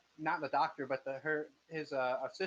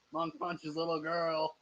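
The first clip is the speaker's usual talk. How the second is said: newsie shouting headlines; 2 semitones higher, 3 dB louder than usual. Acted. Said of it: "The newsies will be shouting about it".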